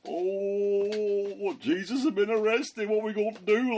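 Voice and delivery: high, panicky voices of the lads; panicking. Retold or imitated. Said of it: "Like, panicking".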